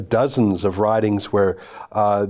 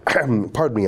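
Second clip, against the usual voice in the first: coughing. Real, not acted. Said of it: "I'm coughing".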